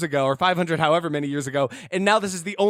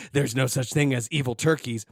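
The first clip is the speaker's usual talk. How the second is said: mocking mimicry; 6 semitones lower than usual. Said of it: "he mimics her".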